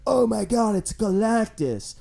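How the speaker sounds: a touch of awed recognition, drawn out; mock amazement. Imagined viewer spotting the villain, mildly amazed. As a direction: play the amazed viewer, slowing on the name.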